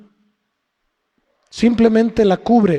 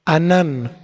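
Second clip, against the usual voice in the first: "anán" stressed on its last syllable; "anán", weight on the final -nán; stress on second A; 3 semitones lower than usual. Shown as a demonstration. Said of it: "con acento en la segunda A".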